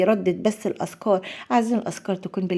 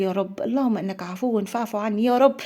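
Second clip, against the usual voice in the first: building to a much higher, louder impassioned cry to God; heartfelt plea; 4 semitones higher, 3 dB louder than usual. Shown as a demonstration. Host showing viewers an impassioned supplication, building louder. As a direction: pour your heart into the plea, rising as you beg. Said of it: "هتقوليه بطريقة مختلفة تمامًا".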